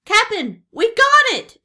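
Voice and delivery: loud, high pirate shout. A narrator's reading. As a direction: call out in triumph to the captain. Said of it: "shouted Pinky".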